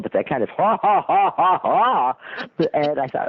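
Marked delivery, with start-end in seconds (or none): 0.0-2.2 imitated chuckle. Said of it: "not just that chuckle".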